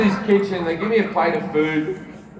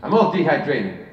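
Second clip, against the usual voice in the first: a lightly voiced, slightly faster celebrity whine; terrible Eddie Murphy; 5 semitones lower, 4 dB quieter than usual. Comic retelling meeting Eddie Murphy, light mock impression. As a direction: do a half-hearted, bad Eddie Murphy. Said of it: "I'm gonna do a terrible impersonation".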